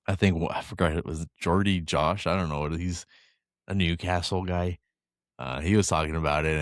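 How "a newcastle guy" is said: put-on light Scouse accent on these words; Liverpool accent. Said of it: "I like your Liverpool accent".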